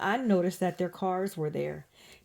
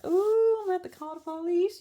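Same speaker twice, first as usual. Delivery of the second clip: under breath; 11 semitones higher, 4 dB louder than usual. Retold or imitated. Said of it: "saying under my breath".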